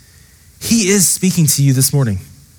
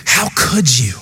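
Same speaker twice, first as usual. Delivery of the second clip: accusing inner voice; 3 semitones lower than usual. Retold or imitated. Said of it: "the voice of condemnation whispering in your ear".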